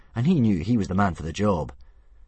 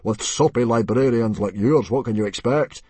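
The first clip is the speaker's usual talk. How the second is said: scornful retort; 4 semitones higher, 7 dB louder than usual. A narrator's reading. Stoic taunts rival chief.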